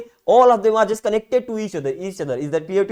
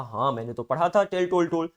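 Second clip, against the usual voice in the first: quoting a student; 4 dB quieter, much faster than usual. Retold or imitated. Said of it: "sir कहा".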